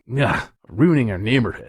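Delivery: lightly voiced judgy complainer; sassy, judgy. Mimicking the judgy writer of the article, sassy mock complaint. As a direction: put on a touch of mock disapproval. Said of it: "a really sassy, judgy person".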